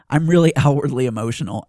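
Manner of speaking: 'really' said through a laugh. Real, not acted. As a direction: laugh as you repeat it. Repeats it with a laugh.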